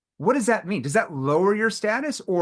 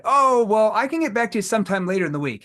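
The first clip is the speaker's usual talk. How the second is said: much louder high 'Oh, well', then fast; evasive prospect; 5 semitones higher, 4 dB louder than usual. Retold or imitated. Salesman imitating a prospect stalling until later in the week. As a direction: put him off breezily.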